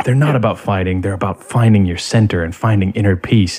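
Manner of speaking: put-on monotone, low, soft-spoken man's voice. Imitating a soft, gentle guy who understands martial arts, very monotone, low and soft-spoken. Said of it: "very monotone and low and soft-spoken".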